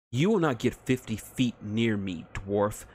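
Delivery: lightly voiced haughty elf, icy; a hint of an icy elf sniper; cold elf threat.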